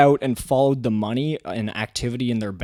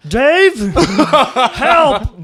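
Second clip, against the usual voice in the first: high plea for help; 11 semitones higher, 8 dB louder than usual. Retold or imitated.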